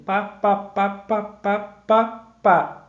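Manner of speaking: seven even, separate beats of "pá"; rhythmic beats. Shown as a demonstration. Teacher beating out the cordel's rhythm, evenly spaced "pá" syllables. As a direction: tap out "pá, pá, pá" like a metronome. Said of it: "Isso é o que dá ritmo".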